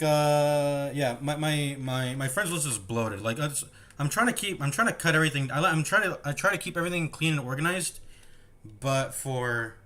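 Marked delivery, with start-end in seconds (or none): 6.2-9.8 words pushed out around burps; talking while burping. Real, not acted. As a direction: speak through a rising burp. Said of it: "excuse me, I keep burping".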